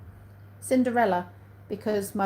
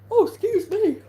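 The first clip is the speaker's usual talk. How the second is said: sudden high apology; 12 semitones higher, 6 dB louder than usual. Real, not acted. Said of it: "that's laziness".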